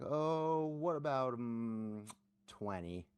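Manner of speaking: high, innocent little ask that drops away; coy fake bet. Poker opponent fishing for a call, coy and innocent. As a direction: play dumb while betting. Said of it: "started making fun of him".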